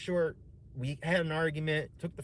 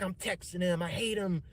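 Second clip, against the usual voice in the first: retold angry yelling; 6 semitones higher than usual. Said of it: "screaming at me".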